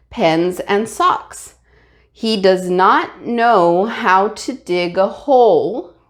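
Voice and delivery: slow, careful read-aloud; reading aloud to class. Shown as a demonstration. Teacher reading a sample paragraph to students, slow and careful. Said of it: "let's go ahead and read it once".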